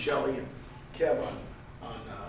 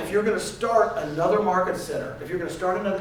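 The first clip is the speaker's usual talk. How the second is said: emphatic warning; 6 dB louder than usual. Retold or imitated. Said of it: "this is exactly how I talked to her".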